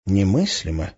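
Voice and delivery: slowly, in disbelief. A narrator's reading. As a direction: say it slowly, weighing the word. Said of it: "медленно сказал он". (медленно)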